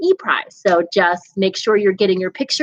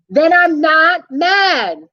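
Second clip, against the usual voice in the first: slow, louder insistence that he's not mad; slow forced calm; 7 semitones higher, 4 dB louder, much slower than usual. Acted. Monster insisting to the boy, slow and deliberate. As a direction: drag it out to prove you're calm.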